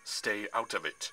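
slow, weighty sneer; sneering villain. A narrator's reading. Atlas orders Percy out of it, sneering. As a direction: warn him off slowly, with contempt. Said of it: "Atlas sneered".

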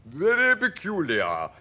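emphatic creature voice; centipede voice. A narrator's reading. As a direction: declare it as a showy centipede. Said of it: "the centipede said".

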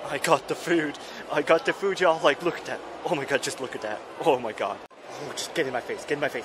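loud gleeful gloating; booming, thrilled food boasting. Real, not acted. Loud gleeful eating rant.

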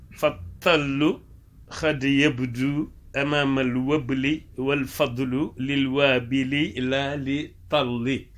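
slow, measured Arabic verse recital; verse recitation. Acted. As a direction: recite the verse slowly, syllable by syllable.

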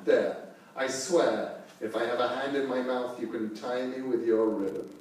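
a lightly voiced proud beast; daring them, calm; challenging wolf. Wolf sets his challenge.

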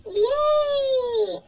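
a happy little shout of joy; excited cheer. Pretend. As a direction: cheer for the big day. Child cheers for first school day.

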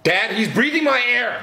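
put-on high whiny kid complaint; whiny tattling little sibling. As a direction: whine it to dad. Kid tattling, then mocked.

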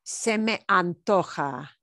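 slow, careful "Se me antoja."; slow demo. Shown as a demonstration. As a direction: spell out "Se me antoja" slowly, syllable by syllable. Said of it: "a phrase that you hear a lot".

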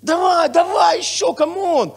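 slow, loud, high cheering; hyped shout. Retold or imitated. Pastor imitating a listener loudly cheering him on. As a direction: bellow encouragement at the preacher. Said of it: "Чи будеш ти це казати".

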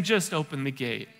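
quiet voice of Jesus inviting the doubting listener in; gentle invitation. Acted. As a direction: coax them quietly to let him in.

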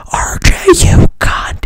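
angry bear cursing RJ in a loud whisper; pissed-off whisper. Retold or imitated. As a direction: hiss it out like an enraged bear. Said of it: "Vincent is pissed".

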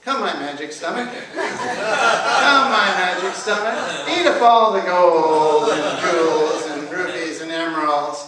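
loud, drawn-out magic summons; rooster's stretched-out spell; rooster incantation. A narrator's reading. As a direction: swell into a slow, booming command. Rooster summons stomach in treasury.

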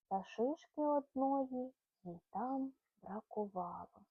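lively rhyming storybook read-aloud; reading to a child. Acted. Mother reading a bedtime rhyme to her son, lively storybook voice. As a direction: bounce the rhymes along for a little listener.

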